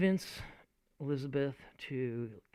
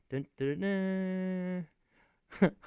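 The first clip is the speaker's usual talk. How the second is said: sung ominous dun dun dun dun; mock suspense fanfare; dramatic dun dun; 6 semitones higher, slower than usual. Shown as a demonstration. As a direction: hum a dramatic sting. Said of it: "I think to myself".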